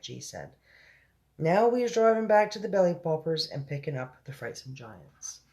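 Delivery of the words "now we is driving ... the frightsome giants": lightly voiced giant giving directions; slightly raised, forceful giant voice; BFG.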